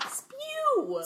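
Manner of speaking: high squealed call; drawn-out, comic high-pitched cry; mock proclamation. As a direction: sing out the name in a squeaky high voice. Gleefully calling out the club name.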